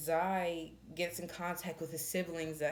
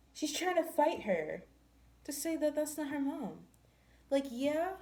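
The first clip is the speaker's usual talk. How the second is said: high, raised exasperated telling; heated indignation; 9 semitones higher than usual. Real, not acted. Reviewer ranting about the baby mama, heated high indignation. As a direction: let the outrage run.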